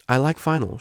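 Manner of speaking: student finally owning her feelings, beaming; starting to beam. Acted. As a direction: say it with a growing smile. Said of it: "she said, starting to beam".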